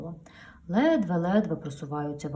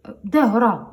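scared; 3 semitones higher, 10 dB louder than usual. Acted. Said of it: "злякався ваговіз".

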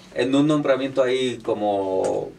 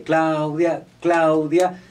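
rhythmic rally chant, lightly projected; imitated cheer; 3 semitones higher, 4 dB louder, much slower than usual. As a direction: mimic a crowd cheering a candidate. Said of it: "después de la porra de".

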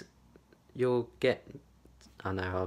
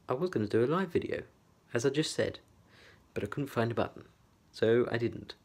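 posh voice. Pretend. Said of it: "That's my posh voice gone".

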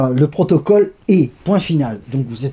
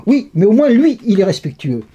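mildly curt retort, starting higher and louder; dry retort; 5 semitones higher, 3 dB louder than usual. Retold or imitated. Female guard answering the teasing guard, dry retort. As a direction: imitate a guard answering back drily. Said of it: "assez sèchement".

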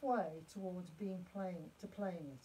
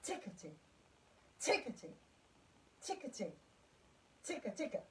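rhythm demo; 4 dB quieter than usual. Shown as a demonstration. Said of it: "then you can add the bowing".

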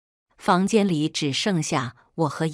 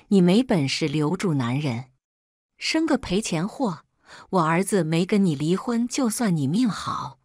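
a moderately raised, cursing rant; angry scolding. Acted. Mother-in-law berates daughter-in-law in hospital, angry scolding. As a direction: spit the insults out at her. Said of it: "他大骂道".

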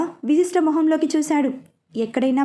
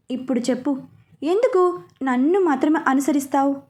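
husky. Acted. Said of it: "అని అడిగాడు హస్కీగా".

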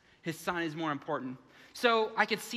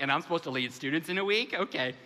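deadpan dread; 4 semitones lower than usual. Retold or imitated. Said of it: "And I'm like".

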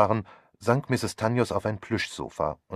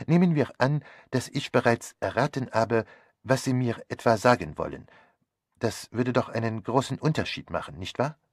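higher, measured, insistent reasoning; persuasive detective; 4 semitones higher than usual. Acted. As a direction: press the point in careful steps. (eindringlich argumentierender Detektiv)

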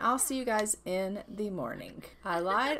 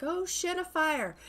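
higher, mock panicked cry; 7 semitones higher than usual. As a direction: imitate a panicking husband. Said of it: "He's like".

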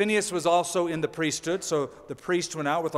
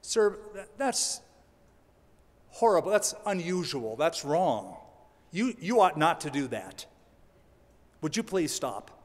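mock polite pleading. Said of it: "you could negotiate".

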